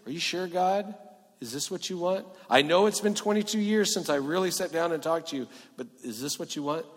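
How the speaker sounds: unsure, asking for reassurance; anxious questioning. Acted. Jacob questioning God.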